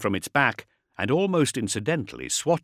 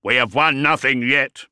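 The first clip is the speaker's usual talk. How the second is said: augmetic voice; 2 semitones higher, 5 dB louder than usual. Acted. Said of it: "His augmatized voice".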